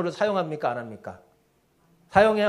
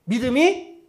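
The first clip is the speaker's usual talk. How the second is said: reproach. Acted. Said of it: "책망하셨어요". (낮고 조용하게 잦아드는 책망)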